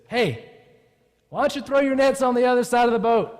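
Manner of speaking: high, loud holler to the boat; yelling from shore. Acted. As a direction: call the advice out across the water. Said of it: "so he's gotta yell".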